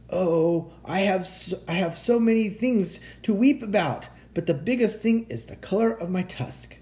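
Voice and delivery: high, plaintive lament; woeful rhinoceros. A narrator's reading. Rhinoceros laments his ugly tusk.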